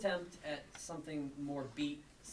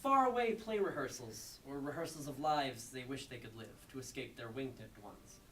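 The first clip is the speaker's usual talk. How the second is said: performed poem; 3 semitones higher than usual. Acted. Poet reading ninety-nine unpunctuated lines, emphatically declaimed. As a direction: punch the phrases out, easing off for asides.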